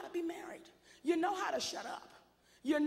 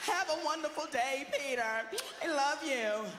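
sweet apologetic wife. Retold or imitated. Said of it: "She's gonna say".

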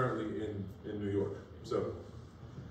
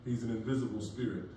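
sarcastic; 2 semitones lower, 3 dB quieter than usual. Acted. Mocking their belief.

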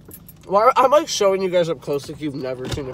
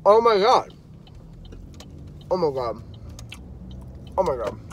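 delighted. Real, not acted. First bites of pizza.

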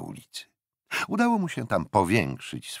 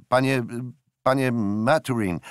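loud call across the street; hailing; 5 semitones higher, 6 dB louder than usual. A narrator's reading. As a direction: catch his attention from a distance. Jack hails Maturin across street. (głośne wołanie przez ulicę)

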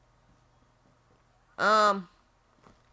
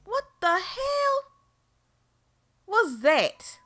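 very high, slow, stretched-out squeal; shocked shriek at something unseen; panicked shriek; 12 semitones higher, 3 dB louder, much slower than usual. Real, not acted. Another scare in the game.

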